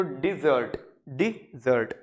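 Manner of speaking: डेजर्ट said slowly with stress on the second syllable, de-ZERT; teacher models डेजर्ट as de-ZERT for students; dessert pronunciation. Shown as a demonstration. Teacher demonstrates dessert, stress on ZERT. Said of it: "ये जो D double S जहाँ पे है".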